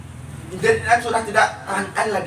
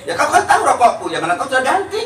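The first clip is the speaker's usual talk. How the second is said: higher and louder, laughing through it; laughing excuse; 5 semitones higher, 6 dB louder, faster than usual. Acted. Laughing while excusing the wrong cigarettes. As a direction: laugh off the mistake to the boss.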